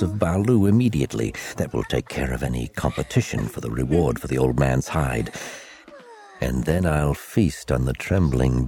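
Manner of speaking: scheming inner monologue. Acted. Villain's inner monologue narration.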